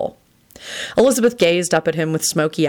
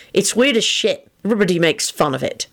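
grumbled, mildly irritated complaint; complain, touchy about your name; irritable; 3 semitones higher than usual. A narrator's reading. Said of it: "replied irritably".

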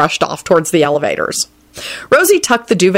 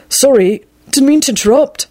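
higher-pitched nervous blurt; blurted apology; 8 semitones higher, 3 dB louder than usual. A narrator's reading. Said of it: "Neville blurted out".

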